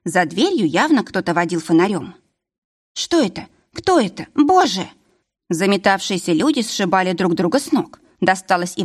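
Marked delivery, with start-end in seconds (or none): 2.9-4.9 frightened cry. Acted. Frightened cries during raid.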